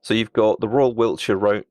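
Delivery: slipping teeth, words tripping; stumbling over loose false teeth; loose dentures. Real, not acted. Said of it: "It's put my teeth back in".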